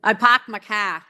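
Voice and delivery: put-on slow, loud Boston accent. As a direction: drop the r's, Boston style. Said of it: "attempt my Boston accent for you".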